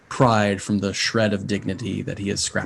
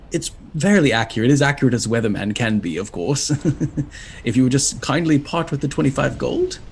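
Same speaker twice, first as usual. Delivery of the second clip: flustered imp professor; 2 semitones higher than usual. Acted. Imp professor introducing himself to travellers, flustered and fussy. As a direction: trip over the words like a nervous bureaucrat. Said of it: "devilish imp".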